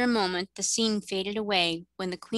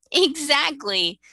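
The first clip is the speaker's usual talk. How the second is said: drawn-out, bright laughing reply; 8 semitones higher, 8 dB louder, slower than usual. Acted. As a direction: stretch it out with a laugh, much higher and louder. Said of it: "laughed the queen".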